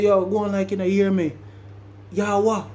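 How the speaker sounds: high, worked-up Jamaican challenge; mad Jamaican accent. Retold or imitated. The speaker challenging Valdosta for playing deaf, mad Jamaican accent. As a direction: imitate a riled Jamaican hollering down a hall. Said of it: "when I get mad, my accent will come out".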